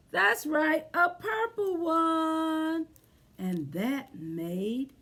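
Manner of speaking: sing-song rhyme read to little ones; lilting picture-book read-aloud; reading to children. A narrator's reading. Teacher reading a counting rhyme to children, sing-song.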